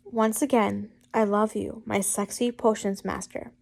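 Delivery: earnest love-letter reading; straight-faced retry. Real, not acted. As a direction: say it sincerely this time. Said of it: "let's try this again".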